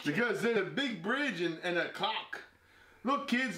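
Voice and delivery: badly faked British accent with swooping pitch; attempted British accent. Player bluffing through the accent challenge, attempted British accent. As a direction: put on an exaggerated, unconvincing British accent. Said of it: "It's British".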